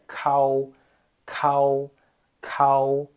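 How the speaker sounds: cal with a puff of air on the k; aspirated kao. Shown as a demonstration. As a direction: breathe hard on the k of cal. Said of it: "Você vai assoprar".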